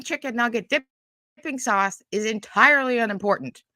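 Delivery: loud, furious rant at the video; angry rant. Real, not acted. Ranting at Kaya's video, real furious. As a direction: chew her out, fuming.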